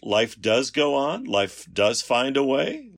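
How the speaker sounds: slow, lofty, rising delivery; dramatic movie line. Acted. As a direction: say it like a grand film quote.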